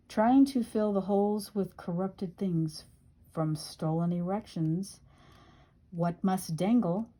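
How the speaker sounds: measured poetry reading with rhymes landed; poem recitation. Acted. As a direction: read it as a poem, line by line. Reads own poem aloud.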